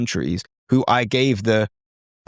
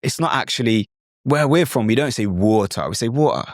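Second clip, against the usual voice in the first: put-on a mild British accent from a friend correcting you. Friend correcting the learner in a light British accent. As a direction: correct the learner like a local mate. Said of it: "chip in and say".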